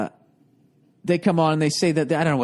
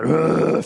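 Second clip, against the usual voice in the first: imitated grunt; 2 semitones higher than usual. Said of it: "that, fucking sound in his voice".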